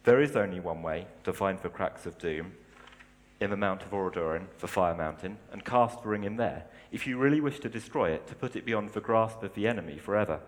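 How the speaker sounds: lightly voiced Gandalf reading; measured storytelling read; story reading. Reads Tolkien passage aloud.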